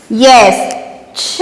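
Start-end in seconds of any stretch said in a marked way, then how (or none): 1.2-1.4 छ with the vowel hummed through the nose; nasalized vowel. Shown as a demonstration. Teacher showing children chandrabindu, nasalized छ. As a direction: draw out छ as a nasal छँ. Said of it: "छ पर लगेगा तो".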